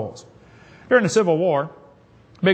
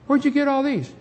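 amazed question; 9 semitones higher than usual. Acted. Believer asks soul-winner in heaven.

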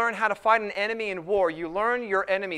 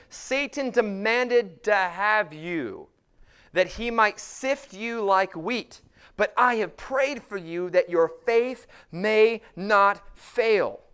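slow, weighty proclamation; solemn warning read from the pulpit; emphatic scripture reading; 4 dB louder, slower than usual. Acted. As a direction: proclaim each phrase deliberately, with punched key words. Reads Jesus' words to Peter aloud.

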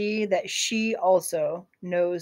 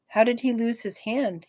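gentle; 3 semitones higher than usual. Acted. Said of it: "asks in a gentle voice".

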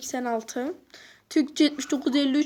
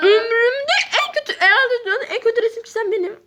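laughing; 8 semitones higher, 4 dB louder than usual. Real, not acted. Laughing at own bad drawing.

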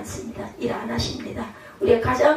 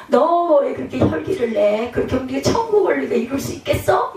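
mock reproach. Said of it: "그것 때문에 또 얼마나 화가 나냐".

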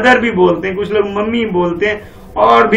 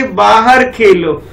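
very slow, stressed verse reading; poem recitation; much slower than usual. Shown as a demonstration. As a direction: chant the verse slowly for the class. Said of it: "पापा क्या कहते हैं".

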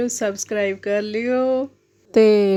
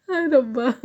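laughing. Real, not acted. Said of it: "ਮੈਂ ਆਪਦਾ ਹਾਸਾ ਨਹੀਂ ਕੰਟਰੋਲ ਕਰ ਸਕੀ".

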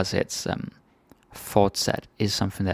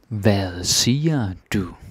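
slow demo; slower than usual. Shown as a demonstration.

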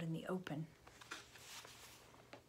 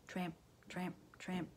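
soft, rhythmic footfalls in single words; distant marching; 7 dB quieter than usual. A narrator's reading. Narrator imitating soldiers heard in the distance, soft and rhythmic. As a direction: chant it softly like far-off marching.

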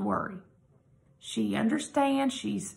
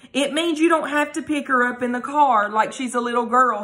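stern; 2 semitones higher, 4 dB louder than usual. Acted. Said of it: "he said sternly".

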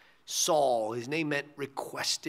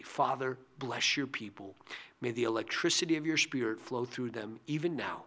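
softer, lower prayer voice; closing prayer; 3 semitones lower, 3 dB quieter than usual. Real, not acted. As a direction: gently pray a blessing over the listeners. Closes the sermon in prayer.

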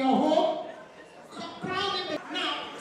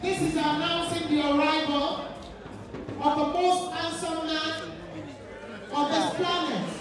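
announcer voice. Acted. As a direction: announce him like a ring MC. MC announces the groom's arrival.

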